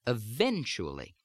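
standard American "eventually", strong second syllable, the rest unstressed; American-accented "eventually", falling at the end. Shown as a demonstration. Accent coach showing the stressed second syllable, standard American accent. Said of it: "In American speech, that has much more stress".

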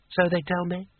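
put-on unsure drunken afterthought; drunk sultan voice. A narrator's reading.

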